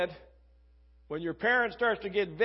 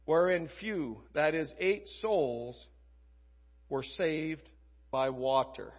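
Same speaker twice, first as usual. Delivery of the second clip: measured reading aloud, pausing between phrases; scripture reading. Real, not acted. Preacher reads First Peter to the congregation, measured scripture reading. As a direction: read the verse out deliberately, phrase by phrase.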